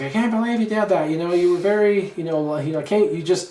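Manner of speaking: a lightly voiced wife, disapproving and fretful; wife scolding. Wife to husband after the backyard confrontation, mildly scolding impression. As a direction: chide him for confronting the neighbours. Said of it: "good impression".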